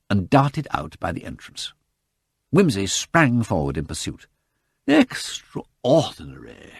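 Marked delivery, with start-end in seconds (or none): 4.9-6.7 drawn-out surprise. Acted. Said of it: "cried Miss Tarrant with a blank face".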